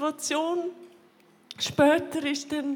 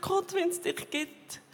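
slow, pleading prayer that climbs higher and louder into a shout; crying out to God from the floor; desperate cry to God; 4 semitones higher, 5 dB louder, slower than usual. Retold or imitated. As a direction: beg God for help as the voice rises. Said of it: "habe so zu Gott geschrauen".

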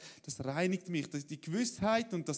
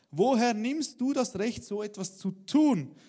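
challenging question; 2 semitones higher, 8 dB louder, slower than usual. A narrator's reading. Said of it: "fragten die Juden".

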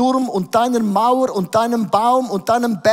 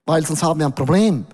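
mild mock Swiss; 3 semitones lower, faster than usual. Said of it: "Der Schweiz".

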